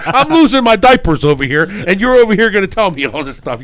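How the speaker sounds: losing gambler ranting at the pit boss; mock rant.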